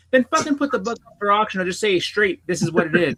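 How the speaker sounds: fed up, pushing the words out in frustration; mildly heated retelling; retold exasperation. Retold exasperated reply to seller.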